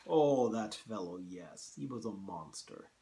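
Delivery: a hint of a Russian accent; General Zaroff. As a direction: attempt a Russian accent, reminiscing. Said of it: "hard to do a Russian accent".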